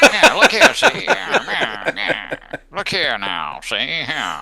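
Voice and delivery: put-on high, loud old man; cranky elderly Skeletor rasp. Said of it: "Sean Skeletor".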